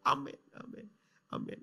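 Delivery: high, crying thanks to God; tearful prayer. Retold or imitated. Pastor praying for the caller, weeping while thanking God. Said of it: "tambah nangis saya".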